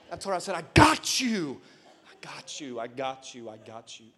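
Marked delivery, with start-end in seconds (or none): 0.6-1.6 slow, weighted promise; emphatic reassurance. Retold or imitated. Father promising his crying daughter he has her, slow and emphatic. 2.1-4.1 very soft, low repeated reassurance; soothing. Retold or imitated. Father soothing his crying daughter, hushed and fading.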